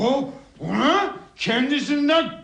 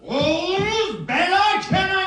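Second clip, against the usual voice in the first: put-on drunken shouting; 6 semitones higher than usual. Drunk son yelling for the door to be opened, shouting.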